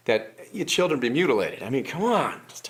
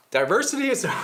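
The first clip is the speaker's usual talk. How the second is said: higher, breaking into laughter; trying not to laugh; 6 semitones higher than usual. Acted. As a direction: attempt the slogan and crack up. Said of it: "How do you say that without laughing".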